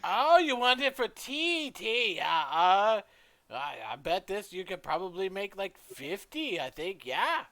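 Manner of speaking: high, loud, hesitant character voice; forgetful shopkeeper. Acted. Shopkeeper estimating cups of tea for customer, high and hesitant.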